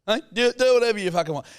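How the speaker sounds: hammed-up huffy dad snapping back; a father in a sulk, yelling the line for show. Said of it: "he gets really salty".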